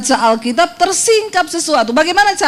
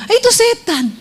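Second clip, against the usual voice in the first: mock alarm; 8 semitones higher than usual. Real, not acted. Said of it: "ada suara begini".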